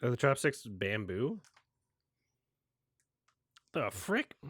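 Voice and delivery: whispered, disbelieving aside; baffled whisper. Real, not acted. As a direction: breathe it out, half to yourself. Baffled reaction to movie.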